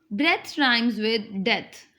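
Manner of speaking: "Breath" with the short vowel of "death", spoken slowly; slowly match "Breath" to "death"; short e in both "Breath" and "death"; breath rhyming with death. Shown as a demonstration. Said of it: "As we pronounce the word death".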